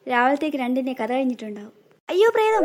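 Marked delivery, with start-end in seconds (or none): 2.1-2.7 high frightened cry; terrified. Acted. Stepmother sees the ghost, high terrified cry. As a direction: shriek at the ghost.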